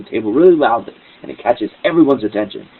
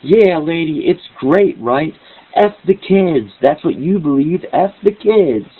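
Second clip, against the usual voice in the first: much higher, louder retold yell; 7 semitones higher, 4 dB louder, slower than usual. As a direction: yell after her as she leaves. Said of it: "I start yelling".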